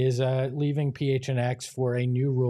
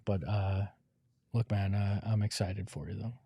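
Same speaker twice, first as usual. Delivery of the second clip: sincere farewell; 4 semitones lower than usual. Real, not acted. Heartfelt goodbye to departing co-host.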